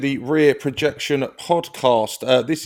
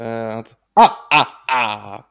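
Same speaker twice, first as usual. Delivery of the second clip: Count Von Count laugh; 2 semitones lower, much slower than usual. Retold or imitated. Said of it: "that's Count Von Count from Sesame Street".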